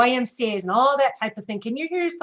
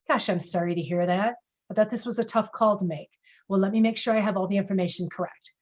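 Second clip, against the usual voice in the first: real-time sympathetic response; 2 semitones lower than usual. Shown as a demonstration. Agent answering a grieving caller, sincere and gentle. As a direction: sound like you truly mean it. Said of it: "A real-time response would sound like this".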